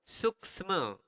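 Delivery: drawn out syllable by syllable; slow teaching demo of "suksema". Shown as a demonstration. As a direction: say "suksema" slowly, stretching both halves.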